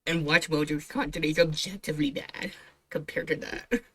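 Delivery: whispered aside so nobody wakes. Real, not acted. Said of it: "Sorry if I'm a bit quiet".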